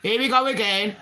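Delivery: exasperated. Retold or imitated. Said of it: "the police would be like".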